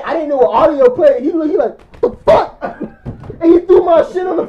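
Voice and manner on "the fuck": loud, high-pitched startled retort; shocked outburst. Retold or imitated. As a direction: act out the friend's shock, sharp jump up in pitch. Retelling friend's shocked reaction to video.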